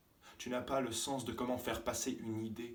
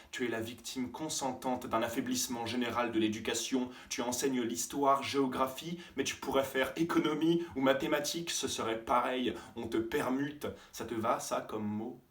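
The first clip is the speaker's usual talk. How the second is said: louder, rising anger; angry tirade; 3 semitones higher, 5 dB louder than usual. Acted. Student berating his teacher, angry. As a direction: lay into him.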